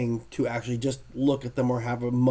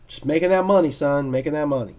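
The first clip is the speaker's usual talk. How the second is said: a hint of a boastful old artist, louder; imitating Neil; 5 dB louder than usual. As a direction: brag it lightly, like a big shot. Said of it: "He's like".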